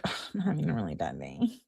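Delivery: soft, low, whiny sulking voice; mock whiny complaint. Mocking the girlfriend's constant complaint, whiny. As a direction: whine it out like a sulky girlfriend. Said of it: "She's like".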